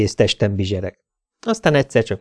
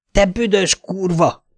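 lassú, magasabb hangú ordítás; lassan, dühösen kiabálva; 9 semitones higher, slower than usual. A narrator's reading. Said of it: "ordítottam". (lassan, magasan ordítva)

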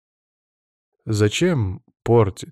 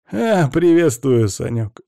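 laughing; 5 semitones higher, 5 dB louder, slower than usual. Acted. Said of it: "засмеялся он".

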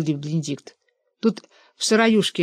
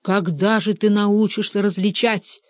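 usual speaking voice

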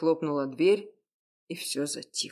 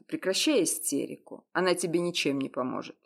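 curt rebuke. Acted. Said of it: "резко осадил её".

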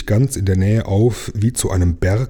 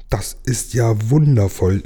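jubilant. Acted. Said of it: "jubelte die kleine Seejungfrau".

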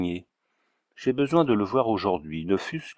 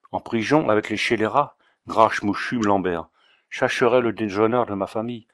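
put-on Auvergnat accent. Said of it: "avec son aimable accent".

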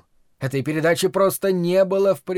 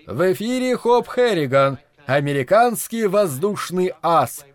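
radio announcer; 4 semitones higher, 3 dB louder than usual. Acted. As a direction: announce it like an old radio show. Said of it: "знакомый голос Глена Рикса не объявил".

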